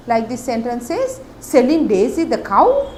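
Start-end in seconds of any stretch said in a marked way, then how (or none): 1.4-2.9 incredulous question, a bit louder; surprised. Shown as a demonstration. Teacher reads a character's line with mild surprise. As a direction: sound amazed at the news. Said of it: "No, he's surprised".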